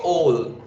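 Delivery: "all" said as one syllable; "all" out in a single go. Shown as a demonstration. Teacher showing syllables, "all" in one syllable. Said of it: "una sola vez sale de mi boca".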